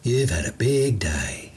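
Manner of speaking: slow, soothing words to a beast; gently calming a wild animal. Acted. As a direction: handyman calming the monster plant, slow and soothing. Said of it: "voice calm, almost soothing".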